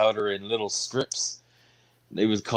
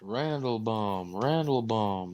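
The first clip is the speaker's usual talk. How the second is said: country singer impression; 5 dB quieter, slower than usual. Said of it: "best singer impersonation".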